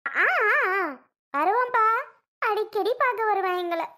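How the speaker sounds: sobbing, voice breaking high; crying. Acted. Daughter sobs reassuring her blind old father. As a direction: choke the words out through tears.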